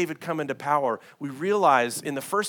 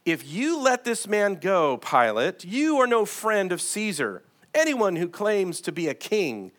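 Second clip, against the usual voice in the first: raised, higher-pitched quoted shout; mock crowd shouting; 5 semitones higher, 3 dB louder than usual. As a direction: call out as accusing leaders, moderately forceful. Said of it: "The Jewish leaders kept shouting".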